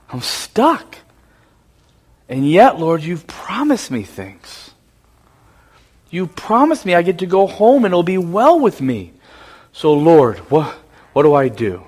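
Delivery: a hushed, pleading prayer, voice sinking low; a mild, understated plea of a scared man; confessing fear to God, softly; frightened prayer. Acted. Jacob's frightened prayer before Esau.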